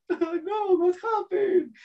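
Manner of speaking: very high mock wail; crying baby. Baby has just lost security at home, crying. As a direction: whimper it like an upset baby. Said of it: "the baby is crying in his room".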